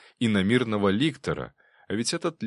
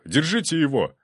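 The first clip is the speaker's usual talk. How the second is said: higher shouted order; excited shout; 8 semitones higher, 4 dB louder than usual. A narrator's reading. Bailiff shouting to the guards. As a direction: order the guards to grab him. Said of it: "завопил пристав".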